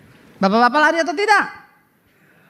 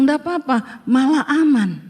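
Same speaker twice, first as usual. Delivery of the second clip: laughing reply. Retold or imitated. Telling husband it's fine.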